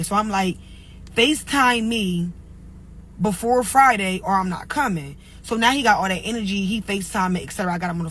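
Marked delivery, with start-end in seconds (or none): 1.2-5.2 slow, measured mock ultimatum; retold ultimatum. Telling how she warned her date, slow firm ultimatum. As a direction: spell out the condition slowly, retelling it.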